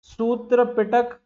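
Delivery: सूत्र पिटक spelled out slowly while writing; sounding out words while writing; slow dictation. Shown as a demonstration. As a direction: drag each word out for the board. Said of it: "इसको लिख ही देता हूं".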